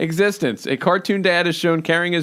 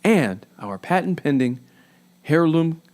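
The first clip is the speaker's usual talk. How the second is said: cheesy announcer voice. Pretend. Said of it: "like your cheesy announcer voice".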